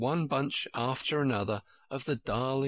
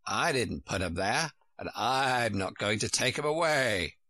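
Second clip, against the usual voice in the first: lightly voiced curt old sheep; a hint of a cross sheep; grumpy sheep. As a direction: refuse firmly in a mild sheep voice.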